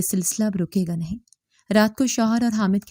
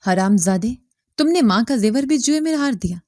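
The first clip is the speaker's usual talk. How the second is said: angry; 3 semitones higher, 4 dB louder than usual. Acted. Father slaps gambling son.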